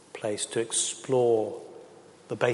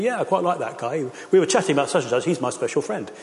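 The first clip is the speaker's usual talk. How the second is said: dad's voice; 4 semitones higher, 3 dB louder than usual. Retold or imitated. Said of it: "dad comes home and says".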